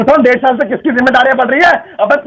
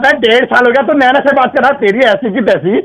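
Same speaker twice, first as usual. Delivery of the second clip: angry. Real, not acted. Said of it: "चिल्ला क्यों रहे हैं आप?".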